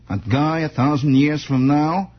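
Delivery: a hint of a movie-star impression; Jimmy Cagney. Host slipping accidentally into an actor's voice, lightly done impression. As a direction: lightly slip into a screen star's delivery. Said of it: "almost fell into Jimmy Cagney there".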